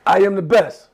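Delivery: slow, measured call for repetition; slow chant for the class to echo; slow affirmations. Shown as a demonstration. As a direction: let each word land slowly. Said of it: "I'ma say it slow".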